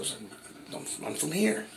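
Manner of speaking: high-pitched insistence; retold protest. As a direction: protest your origins, pitch jumping up.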